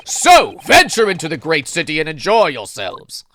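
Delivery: hearty British send-off; British accent. Shown as a demonstration. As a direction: proclaim it in grand British. Continues the British demo.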